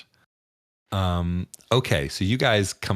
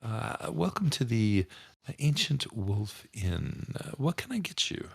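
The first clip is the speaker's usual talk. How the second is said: lightly voiced, higher barmaid; 5 semitones higher than usual. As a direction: greet them as a sweet barmaid, a little higher. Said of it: "and she says".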